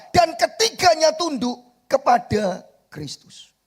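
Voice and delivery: loud, high, fervent preaching; full-force preaching. Acted. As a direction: preach it out to the congregation.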